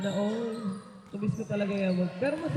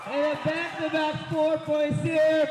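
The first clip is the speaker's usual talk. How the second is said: raised, slow play-by-play call; excited call; 4 semitones higher than usual. Real, not acted. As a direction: call the basket for the crowd. Live basketball play-by-play call. (masiglang pagtawag ng laro)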